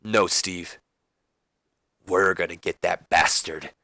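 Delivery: cheesy bro-moment pledge, mock earnest; Rhino. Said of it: "and Rhino's like".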